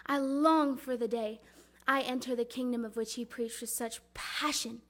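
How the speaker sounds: earnest storytelling as Mary; measured, expressive stage delivery; dramatic monologue. Acted. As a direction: recite it as a mother's heartfelt recollection. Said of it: "performing a dramatic monologue".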